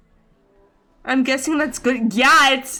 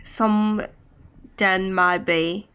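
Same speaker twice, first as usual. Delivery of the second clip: put-on British accent; 3 semitones lower, slower than usual. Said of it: "I can't do a British accent for too long".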